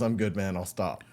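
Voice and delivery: retold in a low, soft voice; calm, in control. Marine calling off the fight to the bouncer, calm and quiet. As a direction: back down quietly and evenly. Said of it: "he totally was in control".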